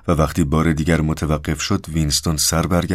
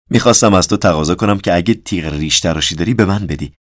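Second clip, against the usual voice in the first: lightly acted character, a little louder; lightly voiced Syme; 2 semitones higher, 5 dB louder than usual. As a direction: voice a man asking a colleague for a favour. Narrator voices Syme's request.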